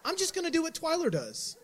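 high, fast, laughing glee; giddy with relief, laughing as it rises; gleeful inner voice. Retold or imitated. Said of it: "And I was like".

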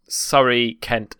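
ordinary delivery

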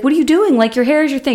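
mock alarmed friend; retold shock. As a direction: gasp out the question in disbelief. Carrie shocked at him shaving.

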